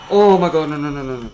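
loud high then falling string of noes; dying player panicking; panicked outburst. Real, not acted. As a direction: panic as you lose. Panicking as character dies.

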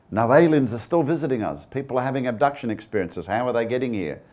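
imitated true believer, protesting; insistent believer. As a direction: lightly act out a believer insisting against the evidence. Voicing insistent UFO believers' objection.

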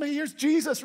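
playing a dad thrilled to see his son on camera; hammed-up excited parent on the phone; excited FaceTime dad. Pastor acts a FaceTime call home.

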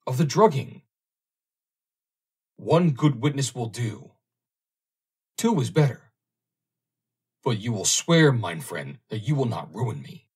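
put-on high, loud pleading in a German accent; cling to him, begging, German accent; a frightened underwriter begging in a German accent; desperate plea. Meyer pleading with captain.

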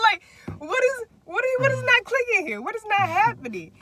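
very high, exasperated mock wail; losing it. Retelling the bridge argument with him, losing it. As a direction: plead in high-pitched acted disbelief. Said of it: "I started losing it".

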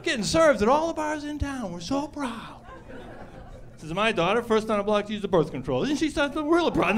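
mock proud parent. Parody bragging parent.

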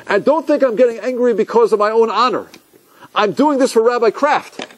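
lightly imitating him justifying his anger; upset scolding. Latecomer turns to the rabbi, mock indignant scolding. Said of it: "really upset with this".

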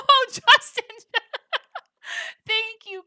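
high, loud delighted cry; excited squeal. Real, not acted. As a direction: shriek of happy surprise. Surprised by a friend's arrival.

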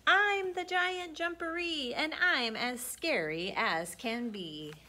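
a big booming creature boast, only lightly voiced; loud monster voice. Storyteller voicing hidden giant booming from burrow. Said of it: "heard a loud voice".

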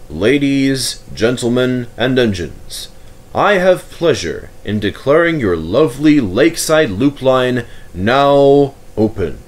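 lightly voiced stately Duke, slowing at the end; a hint of a dignified nobleman declaring a line open; formal Duke. The Duke addresses ladies, gentlemen and engines, a touch formal. The Duke's opening speech.

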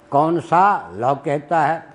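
very slow, सा stretched, then लॉ set apart; कौन सा, a break, then लॉ कहता है; सा लॉ split apart. Retold or imitated. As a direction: pause between सा and लॉ. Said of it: "तो गाली ही उसने दी थी".

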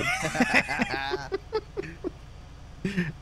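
long, high, softening laugh; helpless laughter. Real, not acted. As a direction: laugh and keep going helplessly. Laughs at accent teasing.

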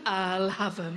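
low, keen quick grab; eager friend again. Retold or imitated. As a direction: echo the friend's greedy reply. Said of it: "rather than".

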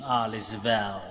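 light Bombay-style Indian English lilt; a gentle Indian film-style take on it; Indian accent. Retold or imitated. Priest repeating the film line in a mild Indian accent. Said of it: "kaya ganun yung intonation".

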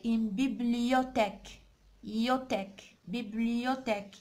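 "بيبليوتيك" in low, measured syllables with a "yo" glide; pronunciation demo. Shown as a demonstration. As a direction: model "بيبليوتيك", picking out "يوتيك". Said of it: "نقراو يعني الكلمة هذه".

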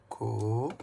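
"Ko-a-la" split into three beats; Ko-a-la clapped out slowly; syllable by syllable. Shown as a demonstration. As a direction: count out "Ko-a-la" by syllables. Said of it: "Trois syllabes".

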